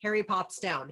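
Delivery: ordinary talk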